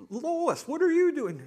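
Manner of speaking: loud, very high exclamation; hammed-up surprise at seeing the ex; astonished ex-husband. Ex-husband spots his ex-wife in heaven, astonished.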